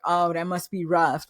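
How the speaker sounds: dry mock sympathy, understated; sarcastic. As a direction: say it as a light sarcastic jab. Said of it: "like, really sarcastic".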